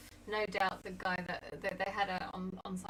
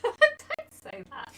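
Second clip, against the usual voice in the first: high, slow laughing protest; 15 dB louder, much slower than usual. Real, not acted. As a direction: laugh it out, scolding playfully. Laughing protest at rude word.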